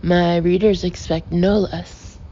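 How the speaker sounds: proud, carrying voice, rising to a loud outburst; mock-outraged food critic holding forth; loud indignant rant. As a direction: lecture him loudly like an offended critic. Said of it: "his voice echoed through the gymnasium".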